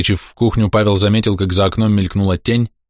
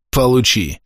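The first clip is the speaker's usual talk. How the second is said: slightly raised, vengeful retort; angry hiss; 4 semitones higher, slower than usual. A narrator's reading. Pavel grabs a stone to retaliate, angry hiss. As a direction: throw it out with restrained anger. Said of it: "зашипел он".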